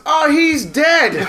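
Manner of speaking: retelling a friend's deadpan reply while cracking up; laughing punchline. Retold or imitated. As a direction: blurt it out through a laugh. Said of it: "And Seth goes".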